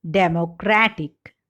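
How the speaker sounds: democratic with CRAT stressed; third-syllable stress in democratic. Shown as a demonstration. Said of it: "Stress shift in derived words".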